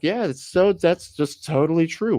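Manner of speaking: mock gullible pundit. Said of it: "And they're like".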